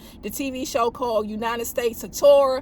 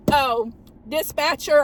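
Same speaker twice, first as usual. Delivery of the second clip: unhurried; slower than usual. Shown as a demonstration. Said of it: "I hold my button for an extra second".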